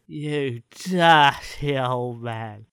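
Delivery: very slow Steptoe and Son line; drawn-out Cockney sitcom line; Steptoe impression. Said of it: "you watch too much of Steptoe and Son".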